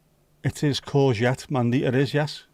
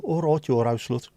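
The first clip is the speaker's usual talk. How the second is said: Brummie greeting. Retold or imitated. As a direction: say it like a Brummie lad would. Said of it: "Said like that as well".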